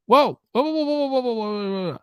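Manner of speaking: high startled whoa; surprised whoa. Real, not acted. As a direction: jump up in pitch, startled. Surprised exclamation at footage.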